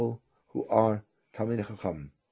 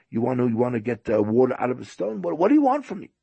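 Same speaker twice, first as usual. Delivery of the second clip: exasperated guest; 3 semitones higher, 4 dB louder, faster than usual. Retold or imitated. Guest pressed beyond his ability.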